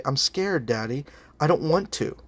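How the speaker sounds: softly voiced scared little girl, lightly imitated; a mild, quiet reluctance with a small lift in pitch; timid child. Six-year-old daughter telling dad she won't try it, mildly timid. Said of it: "she was very timid".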